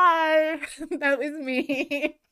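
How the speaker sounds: a gleeful prankster owning up, slowly; teasing Loki. Retold or imitated. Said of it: "I could hear Loki just cackling".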